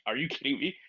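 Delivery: mock panic, retold without shouting; retold freak-out. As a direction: act out being a bit overwhelmed. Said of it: "I'm freaking out".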